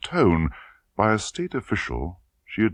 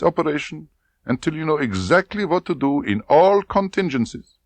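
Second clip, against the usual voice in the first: brief her with cold authority; domineering colonel; 9 semitones higher than usual. A narrator's reading. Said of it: "Rosa Klebb briefing".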